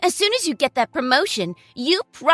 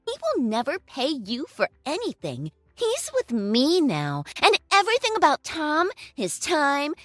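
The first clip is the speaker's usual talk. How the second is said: gloating; 5 semitones higher, 5 dB louder than usual. Acted. Girlfriend gloats over ex-wife.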